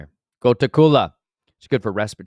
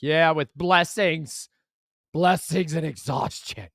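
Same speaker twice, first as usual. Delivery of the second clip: wry comeback; 8 semitones higher, 6 dB louder, much slower than usual. Retold or imitated. His retorted reply.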